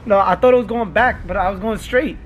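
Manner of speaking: mock-shaken explaining; faked distress. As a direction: pretend to be rattled after a crash. Faking crash distress to prank friend.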